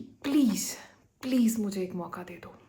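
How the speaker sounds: pleading. Pretend. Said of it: "आपके सामने plead करे".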